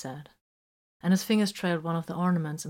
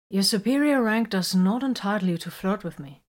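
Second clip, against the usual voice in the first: scolding; 4 semitones higher, 6 dB louder than usual. A narrator's reading. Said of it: "Vox scolded him".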